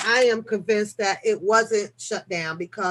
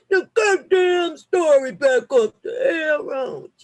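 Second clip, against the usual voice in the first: laughing frustration; 4 semitones higher, 4 dB louder, slower than usual. Real, not acted. Frustrated over story layout.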